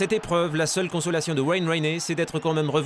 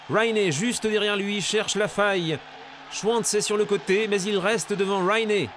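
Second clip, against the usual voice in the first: live race play-by-play; motorsport commentator; 4 semitones higher than usual. Acted. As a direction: keep the race call going.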